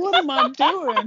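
lost and questioning, hammed up; confused. Joining the parody of the confused trainee, mock bewilderment. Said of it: "So confused".

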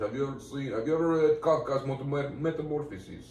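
lightly put-on Polish accent. Shown as a demonstration. Podcaster shows co-host his Polish accent, lightly Polish-accented. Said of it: "I can do Polish".

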